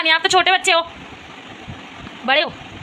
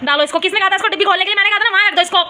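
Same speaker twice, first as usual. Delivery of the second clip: fast, higher, impatient telling-off; cross orders; 5 semitones higher, faster than usual. Real, not acted. Mother ordering daughter to put the pills back, fast and cross. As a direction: rattle off the blame, annoyed.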